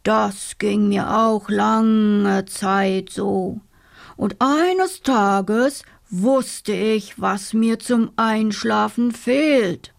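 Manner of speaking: slow rumbling bear question; grumbling bear. Acted. Bear grumbles at the sleepless dormouse, slow.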